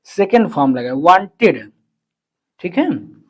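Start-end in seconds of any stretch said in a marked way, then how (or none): 1.0-1.6 wanted said louder, with a falling tune; stress on wanted. Shown as a demonstration. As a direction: lean on the word wanted to show the past form. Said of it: "यहाँ देखो want का second form".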